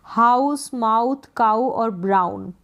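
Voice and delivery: "हाउस, माउथ, काऊ और ब्राउन" with a clear ow diphthong; "ow" sound. Shown as a demonstration. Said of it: "आउ pronunciation होता है".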